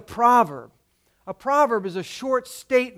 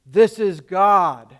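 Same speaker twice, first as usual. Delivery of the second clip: slow, louder solemn divine voice; voice of God; 2 semitones lower, 5 dB louder, slower than usual. Acted. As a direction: announce yourself as God, slowly. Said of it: "And the voice says".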